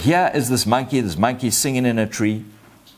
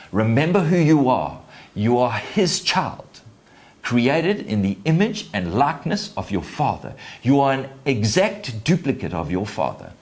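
raised, emphatic preaching; impassioned exhortation; 3 semitones higher than usual. Real, not acted. Preacher tells listeners they are God's child, impassioned. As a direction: drive it home to the congregation. Preacher applies father's charge to congregation.

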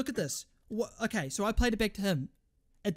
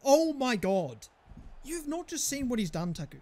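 high, loud exasperated tirade; real furious shouting, easing into complaint; frustrated rant; 4 semitones higher, 5 dB louder than usual. Real, not acted. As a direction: start screaming, then rant on in high pitch. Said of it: "I can hear your frustration".

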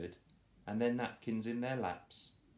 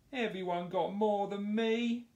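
much higher, louder howl; 12 semitones higher, 5 dB louder than usual. Acted. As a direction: howl it in jealous complaint. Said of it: "howled Horace".

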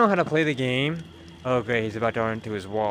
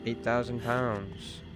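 softer, slower murmur of "thousand" to himself; quiet repeat; 2 semitones lower, 5 dB quieter, slower than usual. Real, not acted. Streamer repeats the weight to himself, softly and slowly. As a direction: say it again under your breath, still taking it in.

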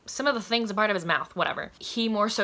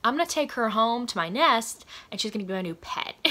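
lightly voiced alien, a bit higher, dreamy and possessive; mock alien, pleased with himself; smitten alien voice; 3 semitones higher than usual. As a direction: play a spider alien charmed by his find. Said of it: "he's like".

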